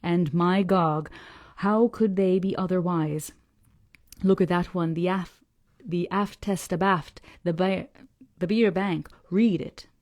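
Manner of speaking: put-on slow, gruff old sailor grumbling about lies; an old salt scorning the parsons' tales, slowly; old Yorkshire fisherman.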